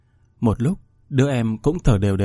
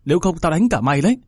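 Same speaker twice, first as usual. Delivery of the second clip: angry mother; 4 semitones higher, faster than usual. Acted. Mother ordering her daughter to abort, angry. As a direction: snap at the daughter to get rid of it. Mother threatening younger child.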